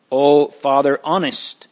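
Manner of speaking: put-on glad cry on seeing an old friend; light, happy exclamation; cried joyfully. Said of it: "Mister Standfast cried joyfully".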